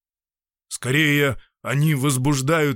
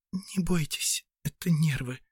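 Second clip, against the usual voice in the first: much softer, higher, hushed; half-whispered; 4 semitones higher, 5 dB quieter than usual. Acted. Tearful Anna softly reassures the doctor, hushed. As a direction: reassure him under your breath. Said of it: "прошептала Анна Даниловна".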